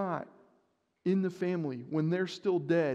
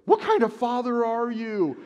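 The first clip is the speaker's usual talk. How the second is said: higher, louder mock scolding; imitating angry wife; 8 semitones higher, 8 dB louder than usual. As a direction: play the wife snapping at a careless father. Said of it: "she's gonna be like".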